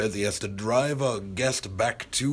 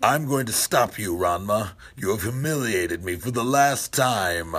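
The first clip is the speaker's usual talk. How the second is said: loud dubbed villain threat; anime villain voice; 4 dB louder than usual. Acted. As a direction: play a nineties cartoon villain. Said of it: "Say you're gonna fight Ranma. I wanna hear that".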